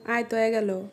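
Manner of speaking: regional Sirajganj Bengali accent; Sirajganj dialect. Shown as a demonstration. Teacher translating into local speech, Sirajganj dialect. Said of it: "শুদ্ধ ভাষা versus সিরাজগঞ্জের আঞ্চলিক ভাষা".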